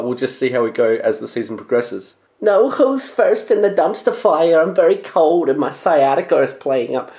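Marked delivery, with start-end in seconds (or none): 2.4-7.1 little Jewish kid impression. Host jokingly complains in a whiny kid voice. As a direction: whine it like a fussy little kid. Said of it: "that impression just became the little Jewish kid on South Park".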